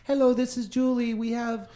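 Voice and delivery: high robotic spam-bot voice; stiff, mechanical scam message read. Retold or imitated. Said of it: "That's a robot voice".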